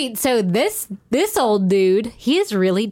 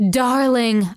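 light attempt at a German accent; lightly accented German lover; 4 semitones higher than usual. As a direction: read it in a put-on German accent. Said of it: "Do that accent again".

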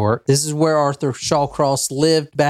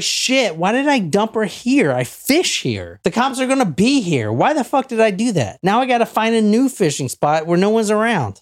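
higher, faster worried muttering; panicked killer's inner voice; 5 semitones higher than usual. Retold or imitated. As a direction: voice his frantic self-talk, fast and higher. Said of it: "He's like".

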